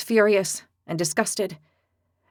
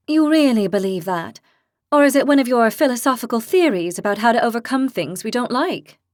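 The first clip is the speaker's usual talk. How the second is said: put-on fierce young heroine; 3 semitones higher, 4 dB louder than usual. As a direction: declare it like a hotheaded girl. Lily skeptical.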